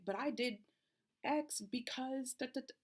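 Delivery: 1 mock defensive retort. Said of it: "now they're like".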